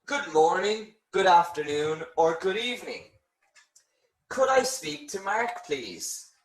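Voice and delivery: polite, lifted business-call voice; formal business call. Shown as a demonstration. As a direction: greet like a receptionist at work. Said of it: "if you are on a business telephone call".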